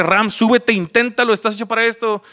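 high, pleading inner voice; heart's urging. Retold or imitated. His heart pushing him to go on stage, high urgent pleading. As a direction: urge with your whole heart. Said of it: "todo mi corazón me dice".

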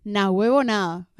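Venezuelan accent; Venezuelan slang. Shown as a demonstration. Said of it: "Voy a decir esto en venezolano".

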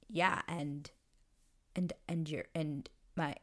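halting, stuck on each word; tongue-tied stammer. Retold or imitated. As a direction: act out someone unable to get the sentence out. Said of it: "he can't talk".

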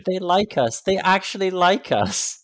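high, loud, hammed-up gushing; exaggerated high-pitched glee; mock delight. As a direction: play up being thrilled and touched. Mock delight at being praised.

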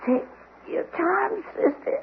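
high tearful words fading to a whisper; dying fading voice. Acted. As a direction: fade out as you die. Dying man's last words.

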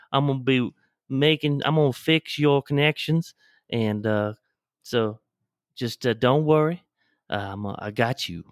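easygoing put-on Southern accent. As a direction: talk like a folksy Southern surgeon. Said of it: "But you talk like this".

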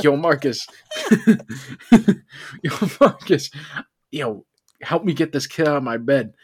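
laughing mock shout down the hall; calling out laughing. Calling roommate Marcus for help, laughing mock shout. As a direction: call for help through laughter. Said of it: "I'm like".

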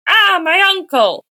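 high, loud hammed-up wail; mock nightmare cry. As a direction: cry out as if jolting awake from a bad dream. Waking from a nightmare, acted.

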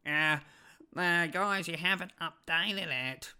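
a hint of a put-on know-it-all; lightly voiced smug commenter, slowed; patronising mock reply. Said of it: "That's just the voices I went to".

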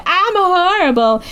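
high, drawn-out lament; hammed-up self-blame, stretched slowly; mock wail. Imitating a mother blaming herself to Arn, mock wailing.

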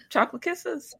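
low sultry announcer voice; sultry perfume ad. Acted. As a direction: purr it like a perfume ad. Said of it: "Oh, that deep and sultry voice".

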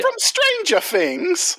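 put-on high, slow, laughing Canadian accent; mock Canadian accent. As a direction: stretch it out in a jokey Canadian accent. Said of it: "in a Canadian accent".

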